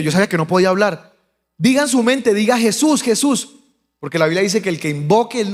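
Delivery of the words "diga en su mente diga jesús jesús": higher, insistent re-enacted urging; urgent exhortation. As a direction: press him to pray. Exhorta al moribundo a invocar. (exhortación urgente e insistente)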